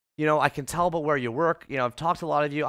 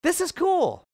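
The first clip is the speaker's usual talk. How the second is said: excited about it; 2 semitones higher, faster than usual. Retold or imitated. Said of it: "I'm like".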